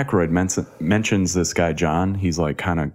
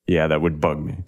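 usual speaking voice

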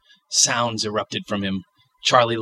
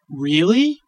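put-on child voice; 8 semitones higher, 4 dB louder than usual.

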